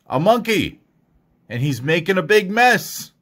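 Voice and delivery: high-pitched storybook alarm; shocked nurse. Acted. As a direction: exclaim it as a startled discovery. Nurse discovers monkey making mess.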